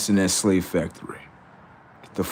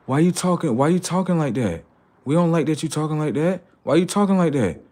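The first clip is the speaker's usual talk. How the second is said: mock human complaint; 6 semitones higher than usual.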